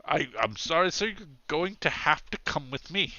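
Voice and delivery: a hint of an apologetic officer; apologetic policeman. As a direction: stammer politely while making the arrest.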